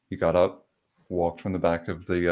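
ordinary delivery

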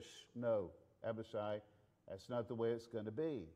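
low, soft hushing; hushed refusal. Acted. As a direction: calmly shush him down. Acted hushing of eager nephew.

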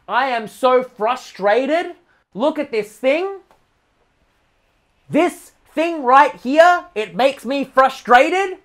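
slow, mock-whiny moaning; whiny complainer. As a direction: drag it out like a sulking complainer. Mocking a frustrated complainer.

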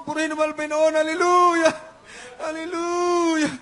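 preaching shout. Real, not acted. Preacher rousing praise after story.

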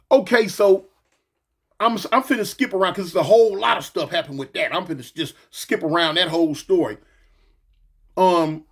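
talking while chewing gum; chewing gum as he talks; mouth full of gum. Real, not acted. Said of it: "that was some gum, y'all".

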